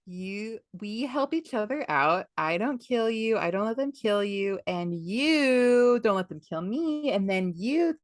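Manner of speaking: hammed-up wheedling, stretched words; Long John Silver. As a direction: spell out a shady deal in a coaxing way. Silver cajoling Jim, acted.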